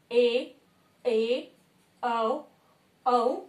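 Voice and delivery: ए, ऐ, ओ, औ each held long; long vowels. Shown as a demonstration. Teacher reciting double-length vowels, long and separate. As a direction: give each of ए, ऐ, ओ, औ a drawn-out beat. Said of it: "दुगना समय जहां लगे".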